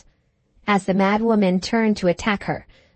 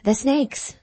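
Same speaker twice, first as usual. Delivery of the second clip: a much higher terrified cry; shriek; 6 semitones higher than usual. A narrator's reading. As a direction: shriek at snakes in her hair. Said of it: "she shrieked".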